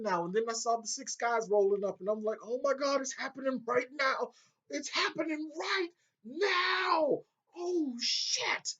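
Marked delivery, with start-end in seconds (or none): 2.4-4.3 higher, thrilled realization; excited realization. Retold or imitated. Realizing the scene is happening. 4.7-8.7 much higher, slow stretched shout; excited yelling. Retold or imitated. Realizing the scene is happening.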